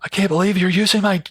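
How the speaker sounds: outraged scolding. Retold or imitated. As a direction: play the furious owner scolding him over a dishcloth. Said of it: "she's really starting to jump on me".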